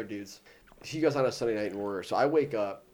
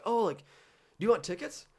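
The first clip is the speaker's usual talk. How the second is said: high mock performer voice; 9 semitones higher, 4 dB louder than usual. Circus performer offering tickets.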